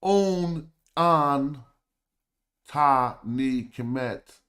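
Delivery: On, an, ta, ni, kemet, each said loud and alone; sounding out glyphs. Shown as a demonstration. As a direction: read the signs one sound at a time. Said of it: "you can correct me if I'm wrong".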